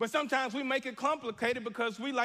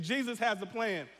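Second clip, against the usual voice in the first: with conviction. Shown as a demonstration. Preacher showing the congregation the line said with conviction. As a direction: declare it like you believe it. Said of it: "you have to say it with some conviction".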